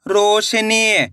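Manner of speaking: drawn-out slow blend of रोशनी into one word; teacher blending syllables slowly for kids. Shown as a demonstration. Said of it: "रो शे नी".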